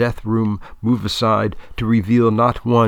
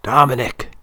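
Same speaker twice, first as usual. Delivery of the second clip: clear and loud; 4 semitones higher, 3 dB louder than usual. A narrator's reading. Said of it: "he says again".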